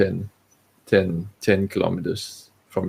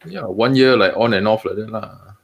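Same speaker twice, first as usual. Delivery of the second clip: Singlish. Acted. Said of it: "We will talk in Singlish".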